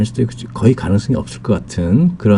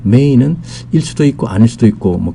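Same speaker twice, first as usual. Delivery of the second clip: ordinary delivery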